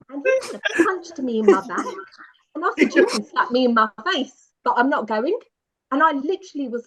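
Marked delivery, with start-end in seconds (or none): 3.0-5.4 put-on loud, stubborn childish defiance; insolent child. To her porter, a loud stubborn naughty-child refusal. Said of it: "really naughty, insolent child".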